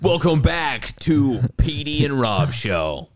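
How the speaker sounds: slow, drawn-out radio DJ voice; host a late-night radio show. Pretend. Mock radio host intro.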